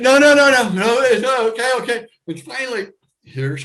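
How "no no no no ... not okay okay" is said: high, loud nervous denials easing off; calming himself down mid-panic; flustered protest. Retold or imitated. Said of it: "And I said".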